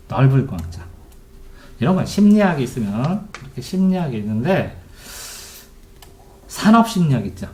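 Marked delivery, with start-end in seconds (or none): none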